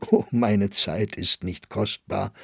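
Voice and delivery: a wistful smile in the voice; a touch of melancholy. Acted. Old clerk tells the visitor his time is worthless, mildly melancholy. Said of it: "mit einem melancholischen Lächeln".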